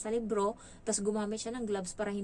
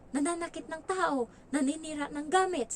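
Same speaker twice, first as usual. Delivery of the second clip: put-on child's accusation; 7 semitones higher, 3 dB louder than usual. Child accuses her, retold.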